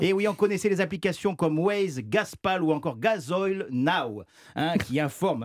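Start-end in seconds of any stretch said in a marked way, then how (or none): 2.0-4.2 app names said slowly in an English accent. Shown as a demonstration. To the host, app names in an English accent. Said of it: "excusez-moi mon accent".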